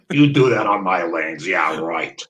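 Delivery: mock Eastern European accent; loud start, thick Eastern European impression; Leo Cantor. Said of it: "In his best Eastern, uh, European accent".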